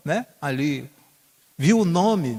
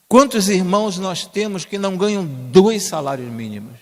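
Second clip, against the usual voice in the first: raised rhetorical question; 4 semitones higher, 6 dB louder than usual. Real, not acted. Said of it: "rhetorical question raised".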